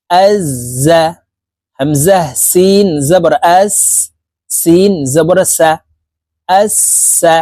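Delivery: slow, deliberate letter-by-letter spelling with pauses; slow spelling drill. Shown as a demonstration. Teacher spells out tashdid letters slowly so students can repeat after him. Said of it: "আপনারা আমার সঙ্গে বলে শিখে নিন".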